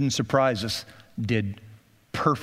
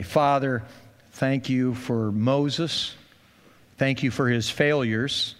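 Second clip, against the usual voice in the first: pastoral prayer. Acted. Pastor praying for the congregation before communion, hushed prayer. Closing prayer over music.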